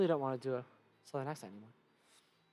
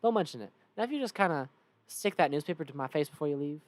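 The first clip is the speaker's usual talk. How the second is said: lightly voiced Southern cowpoke; easygoing Southern character; Cactus Bill; 3 dB louder than usual. Cactus man asks one last favor, Southern voice. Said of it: "Thanks, Bill".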